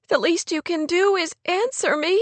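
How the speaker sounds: high, tearful plea; with a sob. A narrator's reading. Kate begs Rory for an answer, mildly tearful. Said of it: "Kate said with a sob".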